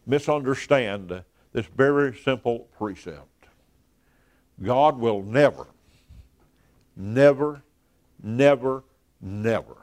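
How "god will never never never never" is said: each NEVER set apart by pauses; emphatic NEVER. Real, not acted. Preacher to congregation on what God will do, emphatic NEVER. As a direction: hammer NEVER one at a time, last one dropping. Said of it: "want to emphasize that word never".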